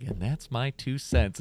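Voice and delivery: slow show-closer announcement; announcer voice. Shown as a demonstration. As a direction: drawl it like a sign-off. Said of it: "I would need, like, a butt".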